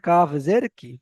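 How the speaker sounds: কাফ জের কি, no elongation at the end; short KI, no stretch. Shown as a demonstration. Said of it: "এখানে টান দেওয়া যাবে না".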